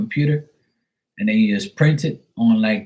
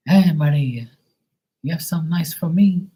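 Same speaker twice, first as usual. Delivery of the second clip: high, sing-song voice; a playful high-pitched customer; mock customer; 8 semitones higher than usual. Customer asking Maria for food, in a high sing-song voice.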